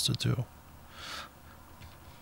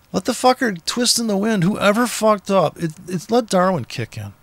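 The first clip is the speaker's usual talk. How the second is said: irritated rant; 5 semitones higher than usual. Real, not acted. Ranting about ambulance siren.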